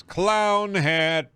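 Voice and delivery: high, loud delighted cry; excited find. Real, not acted. Player spots the clown hat and cries out, delighted. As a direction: yell it like you found treasure.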